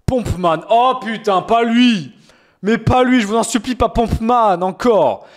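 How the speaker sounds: theatrical please-not-him plea; mock pleading. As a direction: beg the chat with mock horror. Begging chat not to pick Pompman.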